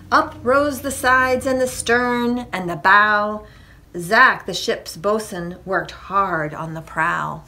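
put-on lively read-aloud to children; story narration. A narrator's reading. Reader tells children about building a ship, lively narration. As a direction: tell the tale with rhythmic bounce. Reads a picture book.

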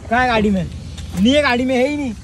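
yelling back in a heated roadside argument; shouting. Real, not acted. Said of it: "हाँ, तो कम आवाज में बात कर".

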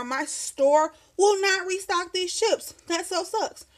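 high, slow complaining; annoyed whine. Real, not acted. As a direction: whine it, mock-upset. Complaining chips not restocked.

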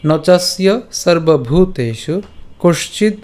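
slow, measured Sanskrit shloka recitation; verse recitation. Shown as a demonstration. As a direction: recite each quarter slowly, pausing between them. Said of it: "আবার বলছি".

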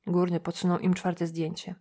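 ordinary delivery, nothing marked

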